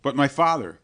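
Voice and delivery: loud, pleading protest; dying man protesting to the monk. A narrator's reading. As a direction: cry out against him. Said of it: "cried Lorenzo".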